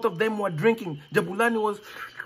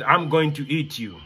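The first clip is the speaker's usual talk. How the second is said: menacing lion; 7 semitones lower than usual. Acted. Lion threatens boy.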